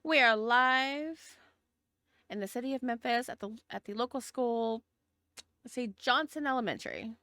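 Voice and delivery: news anchor delivering breaking news; urgent TV news report; reporter voice. Acted. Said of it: "Should I do a reporter voice?".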